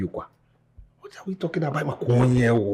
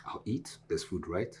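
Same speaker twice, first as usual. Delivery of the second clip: softer and lower, moving away; fading off; 13 semitones lower, 21 dB quieter than usual. Acted. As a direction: trail off as if walking out. Son fading away offstage.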